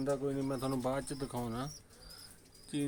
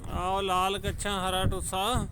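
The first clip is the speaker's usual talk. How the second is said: louder, higher, pointing it out; hearty loud banter; 4 semitones higher, 5 dB louder than usual. Real, not acted. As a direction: insist on it over the noise. Pigeon owners arguing over colours.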